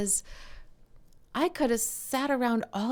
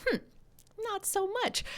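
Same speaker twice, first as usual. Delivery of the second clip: wry dismissal; 13 semitones higher than usual. Retold or imitated. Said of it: "Happy Mother's Day was like".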